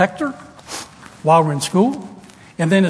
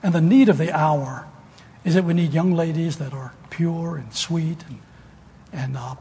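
prayer. Acted. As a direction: pray it unhurried over the congregation. Closing prayer.

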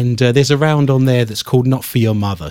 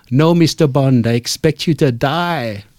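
imitating a German lodger's accent as a Bond villain; slow, mock-menacing German accent. Host retelling his German lodger's villain line in a German accent. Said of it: "she had a fabulous German accent".

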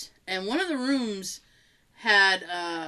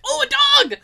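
much higher, delighted squeal; light up at the sight of the dog; 7 dB louder than usual. Retold or imitated. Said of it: "I was like".

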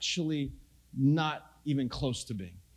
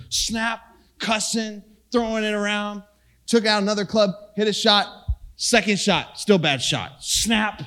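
loud, fired-up retelling of breaking clubs; heated retelling; 3 semitones higher, 6 dB louder than usual. Retold or imitated. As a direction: punch each beat like reliving the anger. Retelling golf rage, loud.

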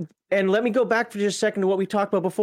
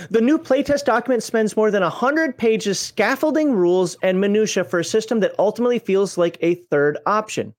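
reading aloud. Acted. Reads review text aloud.

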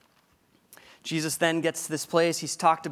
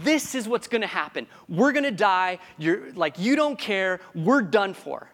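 louder worried rush; panicked disciples; 3 semitones higher, 5 dB louder than usual. Retold or imitated. Disciples despair in the storm, loud mock panic. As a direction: fret that all is lost. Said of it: "They're saying".

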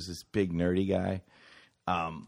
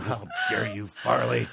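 mock squeal. Mocking teacher shout.

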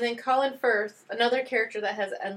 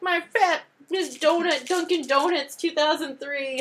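mocking British voice; 6 semitones higher, 3 dB louder than usual. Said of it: "they're like".

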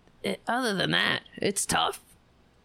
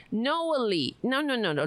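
higher-pitched mocking denial; James Carville; 4 semitones higher than usual. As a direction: wave it away in mock dismissal. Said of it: "James Carville said".

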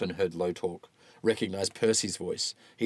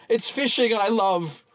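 slow confession; 12 semitones higher, 6 dB louder, slower than usual. Acted. Walton confesses slowly.

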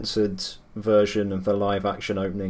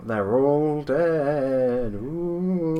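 ghost voice; 3 semitones higher, much slower than usual. Acted. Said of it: "an English ghost voice appear".

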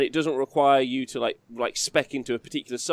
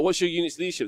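lightly spooky ghostly ask; a hint of a ghost voice; 5 semitones higher, faster than usual. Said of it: "you say it in a spooky voice".

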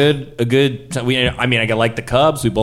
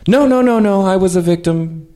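high, loud hurried denial; flustered denial; 9 semitones higher, 4 dB louder than usual. Acted. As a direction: quickly insist you're innocent, high pitch. Victim insisting, panicked denial.

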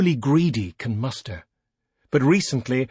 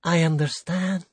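sad; 6 semitones higher than usual. Acted. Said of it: "he said sadly".

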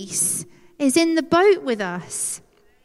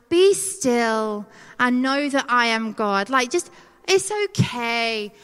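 gentle reassurance. Retold or imitated. Sending a verse to struggling friends, gently reassuring. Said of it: "sending friends who are going through it. I'm like".

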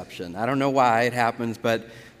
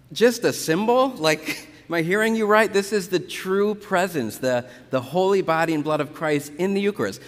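can't believe what he just heard, with a small laugh; incredulous disbelief; 4 semitones higher than usual. Retold or imitated. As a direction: pitch jumps high, stunned and disbelieving. Retelling argument at wedding reception.

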